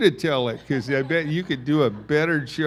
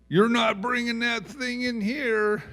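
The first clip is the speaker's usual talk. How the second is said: higher, indignant wife refusing the possum; wife putting her foot down, raised pitch; wife turning down the possum, higher and indignant; scolding wife; 7 semitones higher than usual. Retold or imitated. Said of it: "That's kind of the way she sounded".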